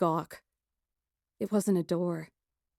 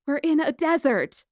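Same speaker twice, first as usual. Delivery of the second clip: panicky; 7 semitones higher, 4 dB louder than usual. Acted. Panic realization.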